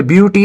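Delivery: but with a short "uh" vowel; short, open "uh" in but; pronunciation model. Shown as a demonstration. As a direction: say but to rhyme with cut. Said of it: "is pronounced as but".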